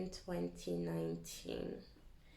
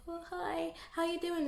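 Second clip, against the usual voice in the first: much higher, bright mock cheer; chirpy greeting; 8 semitones higher than usual. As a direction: imitate an overly sweet hello. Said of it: "and be like".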